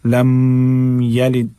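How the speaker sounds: slow लम यलिद; यलिद with a short first vowel; held M, short ya. Shown as a demonstration. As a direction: recite लम यलिद slowly. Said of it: "गुन्ना नहीं करना है".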